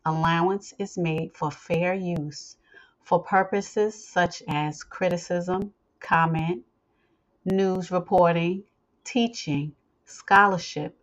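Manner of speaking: measured, formal legal reading; formal disclaimer read. Acted. Host reading listeners the copyright disclaimer, formal read.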